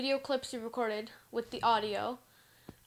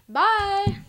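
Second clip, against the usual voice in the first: excited; 9 semitones higher, 11 dB louder than usual. Real, not acted. Cheerful sign-off.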